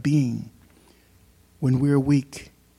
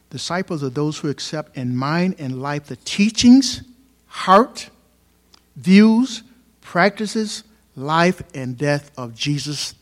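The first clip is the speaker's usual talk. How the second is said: building preaching; 2 semitones higher, 7 dB louder, slower than usual. Acted. Pastor defining a disciple to the church, building to a loud peak. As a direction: climb to a ringing shout.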